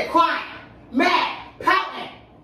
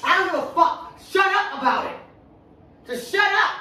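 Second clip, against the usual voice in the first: fed-up anger; 4 semitones higher than usual. Real, not acted. Partner tells him to stop.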